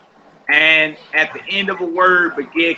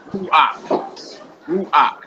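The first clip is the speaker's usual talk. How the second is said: "Ruach" stressed on "Ru", falling away; stress on first syllable. Shown as a demonstration. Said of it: "first syllable would be stressed".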